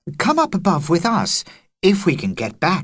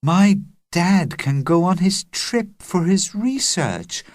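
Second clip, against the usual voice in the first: dreamy murmur; 9 semitones higher than usual. A narrator's reading. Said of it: "murmured Agnes dreamily".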